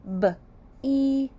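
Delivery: "B-E-B" letter by letter, each one separate; name each letter separately; spelling out letters. Shown as a demonstration. Teacher spelling a syllable for children, letter by letter. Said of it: "Let's sound out be".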